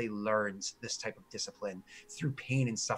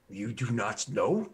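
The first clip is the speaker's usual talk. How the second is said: slow, disbelieving guard voice; slow incredulous orc guard; 2 semitones lower, slower than usual. Acted. Orc guard amazed the strangers don't know Grommen. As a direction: let it hang, amazed they don't know.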